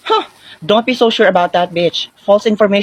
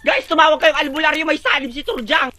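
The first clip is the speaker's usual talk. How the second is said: tag; 8 semitones higher than usual. Acted. Mock alarm that friend is possessed.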